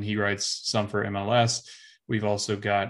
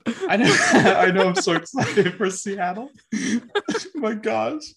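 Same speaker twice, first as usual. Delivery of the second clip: high, loud laughter through words; laughing; 11 semitones higher, 8 dB louder than usual. Real, not acted. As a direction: laugh it off while talking. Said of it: "It's got you choked up".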